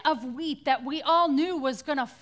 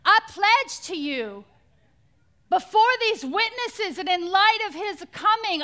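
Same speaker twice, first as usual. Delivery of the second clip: loud, raised pledge in an attempted Southern drawl; Anne Graham Lotz; 4 semitones higher, 7 dB louder than usual. Daughter vowing at her father's funeral, imitated Southern drawl, declaimed. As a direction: declare it like a Southern evangelist's vow. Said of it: "in her thick Southern drawl".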